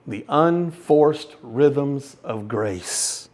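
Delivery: savoring. Real, not acted. Savoring the phrase.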